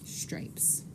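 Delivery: breathy whispered answer; whispering. Real, not acted. Rapid fire answer.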